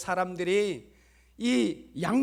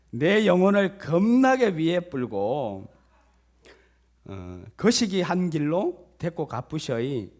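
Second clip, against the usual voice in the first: loud, hearty put-on Jeolla accent; Jeolla dialect; 5 dB louder than usual. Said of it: "전라도 버전이더라고요".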